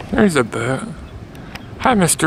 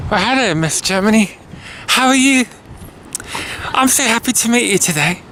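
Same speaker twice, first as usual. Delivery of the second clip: lightly hammed British greeting; put-on British accent; 3 semitones higher than usual. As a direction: greet a guest in playful British tones. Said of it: "nice little accent".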